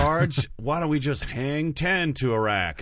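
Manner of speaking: lightly hammed-up surfer dude in the army; mock surfer soldier. Mock surfer-soldier movie trailer line.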